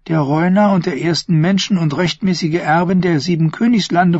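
earnest, proud listing of titles; Thyene's voice. Acted. Thyene proudly proclaiming Myrcella's titles to the prince.

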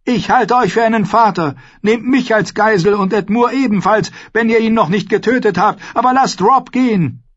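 high, urgent appeal; desperate pleading. A narrator's reading. Mother offers herself as hostage, pleading. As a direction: bargain for his life. Mother bargains for her son's life.

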